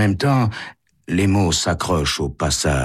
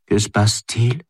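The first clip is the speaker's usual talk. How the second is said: dull question, pitched higher; dreary voice; 6 semitones higher than usual. A narrator's reading. Wife asks Santo what is happening, drearily. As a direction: ask it drearily in a higher woman's voice. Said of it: "demande-t-elle d'une voix morne".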